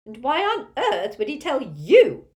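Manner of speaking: high, loud, drawn-out screech. A narrator's reading. Tipsy aunt rounding on Harry, scornful screech. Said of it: "screeched Muriel".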